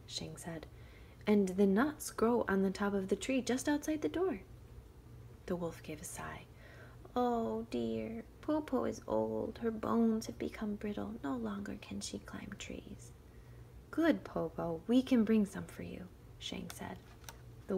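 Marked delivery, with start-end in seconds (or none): 1.3-4.4 put-on higher, sweetly calling girl; clever girl. Shang tempts wolf. 7.1-13.1 put-on higher, slow feeble old woman; frail old granny. Wolf plays frail granny. 13.9-16.1 put-on clever girl. Shang offers.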